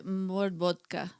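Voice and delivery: put-on slow, laughing Russian accent. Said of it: "in your best Russian accent".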